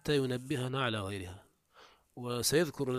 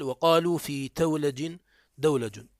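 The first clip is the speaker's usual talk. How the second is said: slow, louder reading of the quote; reading the text aloud; 2 semitones higher, 7 dB louder, slower than usual. Shown as a demonstration. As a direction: read the rule out clearly. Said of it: "فقال". (قراءة المتن بصوت أعلى)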